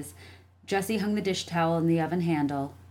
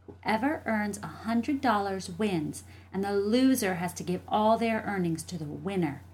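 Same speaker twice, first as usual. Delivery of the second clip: lightly voiced, higher child; challenging little sister; 4 semitones higher than usual. Jessie proposing a bet to her brother, challenging. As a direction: lay down the terms like a kid.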